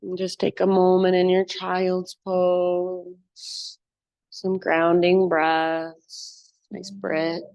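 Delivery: slow, low yoga-teacher voice; guided meditation. Real, not acted. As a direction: guide them into stillness, drawing words out with long pauses. Leads a grounding rest in yoga.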